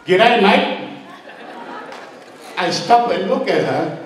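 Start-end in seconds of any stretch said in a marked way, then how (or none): 0.0-0.8 higher, rising "G'day, mate"; excited child greeting. Retold or imitated. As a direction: greet your uncle in Aussie slang, pitched up. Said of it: "Manu ran up to me and says".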